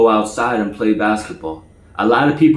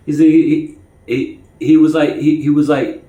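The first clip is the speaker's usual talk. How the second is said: real stutter; 5 semitones higher, 4 dB louder than usual. Real, not acted. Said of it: "Now, now I'm getting my stutter".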